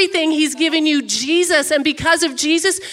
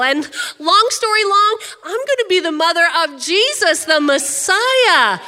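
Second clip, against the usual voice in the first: higher, louder, gushing with news; bursting to tell her cousin the big news; excited Mary; 5 semitones higher, 3 dB louder than usual. Acted. Mary bursting in on her cousin with big news, excited. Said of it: "imagine Mary showing up at Elizabeth's door".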